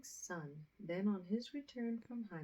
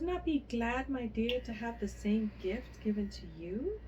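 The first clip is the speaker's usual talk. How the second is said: higher and louder, eager calling; crying out eagerly; 4 semitones higher, 4 dB louder than usual. A narrator's reading. A mother calling Fanny to come get the same gift, eager loud calls. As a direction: call the other daughter over in a rush of greed. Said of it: "cried the mother".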